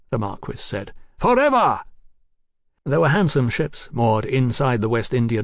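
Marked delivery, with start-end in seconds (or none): 1.2-1.8 high, loud, ringing cry; fervent proclamation. Acted. Marquis promising Mallory everything, high exultant proclamation. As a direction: throw it out as a zealot's promise.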